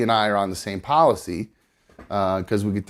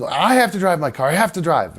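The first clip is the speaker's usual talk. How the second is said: higher-pitched imitation of panicking; retold panic; 5 semitones higher than usual. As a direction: insist in a mildly mock panic. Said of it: "why you're panicking".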